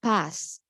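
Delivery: PAST said alone after a pause, falling; stressed word. Shown as a demonstration. Teacher showing how to emphasise the past, stressed PAST. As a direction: set PAST apart with firm stress. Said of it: "you have to stress the word".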